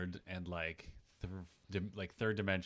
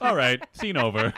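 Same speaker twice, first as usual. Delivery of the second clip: loud call; 3 semitones higher, 10 dB louder than usual. Pretend. Mock director calling cut.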